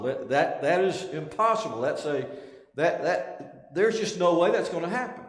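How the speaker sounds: insistent, stumbling protest that climbs at the end; emphatic denial. Retold or imitated. Peter denying it could ever happen, emphatically. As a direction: refuse to accept it, pushing harder as you go. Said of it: "Peter comes back emphatically again, denying that that's possible".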